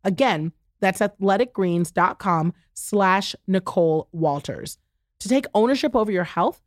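upbeat sponsor read. Acted. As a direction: sell it like a host ad. Host reads a sponsor ad.

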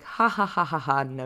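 chuckling dismissal, lightly imitating mom; mom laughing it off. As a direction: laugh it off like an amused mother. Mom laughing off child's claim.

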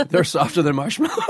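laughing. Real, not acted. Group laughing at soft teeth.

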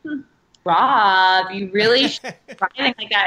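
snide jab at Rob's driving; nasty sarcastic remark. Retold or imitated. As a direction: say it with a nasty edge. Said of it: "like, a nasty".

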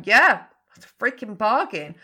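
imagined delighted client. Pretend. Coach voicing a client who finds the price cheap, delighted. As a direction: toss it off like an unbeatable deal. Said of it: "I really want you to kind of go".

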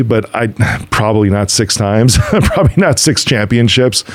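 chuckling through the phrase; laughing through words. Real, not acted. Podcast host laughing as he describes Jordan without Scottie. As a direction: let a laugh break into it.

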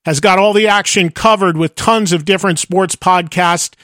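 brisk, upbeat network promo; podcast promo read. Acted. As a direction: sell the sports line-up to listeners.

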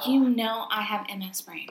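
unvoiced, hushed confiding whisper. Real, not acted. Whispering a joke about her foggy brain to her cohost. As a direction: breathe it as a secret aside.

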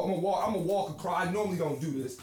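walking away from the mic; far from mic. Real, not acted. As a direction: voice fading off mic. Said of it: "I'm sorry I walked away from the mic".

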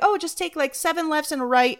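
high-pitched imitation of a kindly neighbour; helpful local woman. Nice woman directing a lost driver, imitated helpfully. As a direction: give directions in a high, friendly voice. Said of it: "And she's like".

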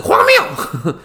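loud, high, indignant "荒谬"; emphatic outburst. Real, not acted. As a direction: spit out "荒谬" with a laugh of disbelief. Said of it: "我个人就两个字".

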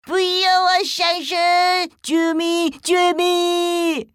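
high, loud cries for help; a little boy begging for rescue; panicked child. Acted. Boy buried under trash.

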